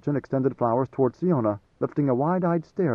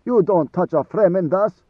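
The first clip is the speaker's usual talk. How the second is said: higher and louder, indignant querulous protest; 5 semitones higher, 6 dB louder than usual. A narrator's reading. Garoon scolding Idaho for touching his robe, querulous. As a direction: bristle with wounded pride. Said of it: "his voice querulous".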